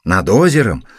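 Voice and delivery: loud, pointed question over the lake; teasing question. Acted. Teasing question, then admission.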